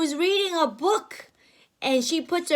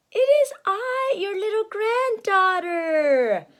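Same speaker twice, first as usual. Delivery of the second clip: put-on little girl; 6 semitones higher than usual. Red Riding Hood at the door, girlish and higher. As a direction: sound small and sweet. Girl's line, raised pitch.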